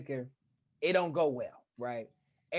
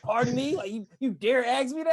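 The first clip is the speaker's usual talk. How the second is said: mock haughty; 3 semitones higher, 5 dB louder than usual. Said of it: "to kinda intimidate me".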